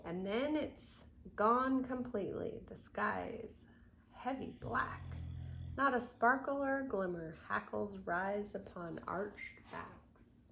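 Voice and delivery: put-on gentle rhythmic read-aloud for children; storybook reading. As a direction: read the rhyme to little ones. Reads picture book aloud.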